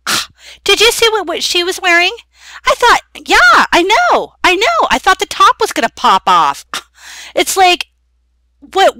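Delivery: catty. Acted. Catty gossip about Stephanie's dress.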